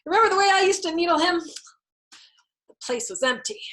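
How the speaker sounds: a hint of a callous captain mocking; Captain Black gloating. A narrator's reading. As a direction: crow about the dead kid.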